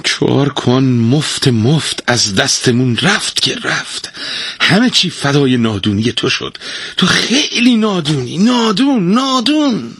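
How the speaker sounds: slow high grumble rising to jeers; grumbling. Acted. Wife grumbles and taunts husband, pitch climbing high. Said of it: "غرولند کنان ادامه داد".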